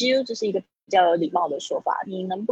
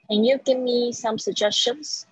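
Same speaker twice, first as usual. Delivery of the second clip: "suggestions" ends on a rising tune; uptalk; 4 semitones higher than usual. Shown as a demonstration. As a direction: lift the pitch at the question's end. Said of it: "语调上扬". (句尾"suggestions"语调上扬)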